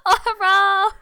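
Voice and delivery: loud, high, laughing mock Asian accent; mimicked Asian accent. Co-host teasing her friend's story, loud mimicked Asian accent. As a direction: echo the accent loudly through laughter. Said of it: "I was mocking her accent".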